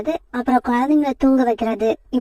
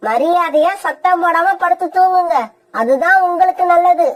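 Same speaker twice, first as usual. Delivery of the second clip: lightly voiced stern mother, threatening; threatening stepmother; 5 semitones higher than usual. Kori threatening the crying children, stern. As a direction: scold the crying children into bed.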